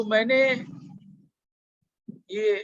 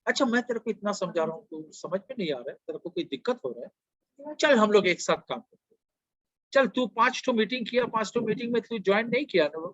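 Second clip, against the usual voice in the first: gentle mentor voice. Shown as a demonstration. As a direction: reassure him kindly, like an elder. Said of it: "modulation of voice maintain करो".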